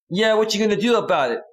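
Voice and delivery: mock girlfriend taunt; defiant girlfriend. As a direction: lightly voice her challenge. Voicing the angry girlfriend.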